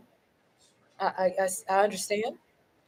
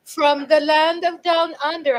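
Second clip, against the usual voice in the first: slow, higher attempt at an Australian accent; hammed-up Australian accent, a little higher; horrible Australian accent; 5 semitones higher, 4 dB louder than usual. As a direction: do a bad, drawn-out Australian accent. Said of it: "did a really horrible accent".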